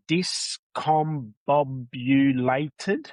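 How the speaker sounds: slow, puzzled, stretched-out query; incredulous drawn-out word. Real, not acted. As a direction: sound out the strange word in disbelief. Puzzling over an odd word.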